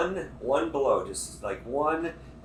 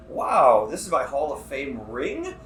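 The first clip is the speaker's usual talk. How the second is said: dry fake amazement, drawn out; sarcastic wow; 3 dB louder, slower than usual. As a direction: feign being impressed. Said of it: "what a random happenstance".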